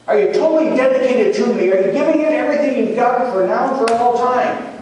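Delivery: high, impassioned run of questions; voice risen high. Retold or imitated. Jesus pressing Peter for everything, high and impassioned. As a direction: keep driving the questions, pitch held up. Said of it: "his voice rose each time he asked him".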